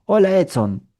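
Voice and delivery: put-on high bright greeting to a child; sing-song hello from a grown-up; adult greeting child. Shown as a demonstration. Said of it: "Y yo repito".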